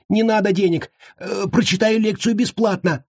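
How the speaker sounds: high frantic pleading; panicked high-pitched captive. A narrator's reading. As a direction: beg fast and high. Captive begs.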